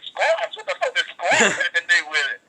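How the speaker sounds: can't believe the advice; incredulous. Retold or imitated. Wrestler reacting to the squats advice, incredulous. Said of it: "it was like".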